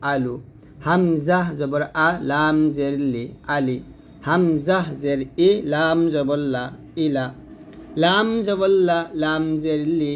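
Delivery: slow singsong spelling, then joined "আলু", "লালি", "লালু"; spelling-out recitation. Shown as a demonstration. Teacher spelling joined letters for learners, slow measured chant. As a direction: stretch "হামজা" and "লাম", keep the l of "লা" thin. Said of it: "এরকমভাবে উচ্চারণগুলো করতে হবে".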